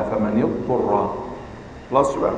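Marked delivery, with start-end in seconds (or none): 0.0-1.1 slow فمن اضطر linked to the word before; joined demo. Shown as a demonstration. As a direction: start from فمن and join it to اضطر. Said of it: "تأتي بما قبلها". (فمن اضطر موصولة ببطء)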